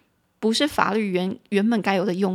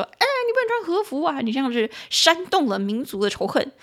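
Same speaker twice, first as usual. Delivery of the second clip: 突然拔高、带点戏谑地学警察呵斥; 学街上警察拦人训话, 语气夸张; 模仿警察训斥; 5 semitones higher than usual. Retold or imitated. 警察在街上训斥穿和服的人. (学警察当街训斥穿和服的人的腔调)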